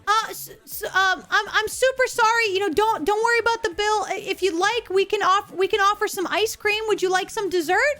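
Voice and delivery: a nervous waiter begging a furious customer to stay; panicked waiter. Retold or imitated. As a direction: fumble the words like a scared waiter. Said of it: "the waiter panics".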